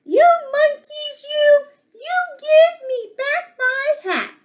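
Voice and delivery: very high, indignant storybook scolding; high-pitched, exaggerated telling-off; angry peddler. A narrator's reading. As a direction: demand it back in play-acted outrage. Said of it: "That made the peddler angry".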